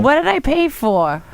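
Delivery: put-on slow, whiny Jewish accent. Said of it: "I love doing a Jewish accent".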